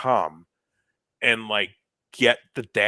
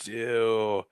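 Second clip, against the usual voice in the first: slow, hushed whisper to himself; anxious whisper; 9 dB quieter, slower than usual. Retold or imitated. Musician fretting over collecting pay from the groom, anxious whispering. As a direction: whisper the worry, drawing it out.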